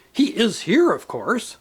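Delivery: a mother fiercely defending her absent son. Acted. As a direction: insist fiercely, then drop it. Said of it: "And then most fiercely".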